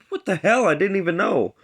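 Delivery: high, loud, startled complaint; shocked protest. Retold or imitated. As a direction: yelp it as if blindsided. Kicked boy protests, caught off guard.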